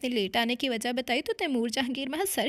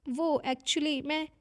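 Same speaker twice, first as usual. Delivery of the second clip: hesitant; 3 semitones higher, much slower than usual. Acted. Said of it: "गला खनकार कर इतना ही बोली".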